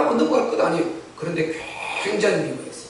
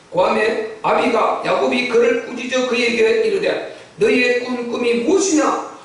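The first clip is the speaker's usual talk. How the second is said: scripture reading. A narrator's reading. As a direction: read it out formally, stretching the final question. (성경을 또박또박 읽듯이)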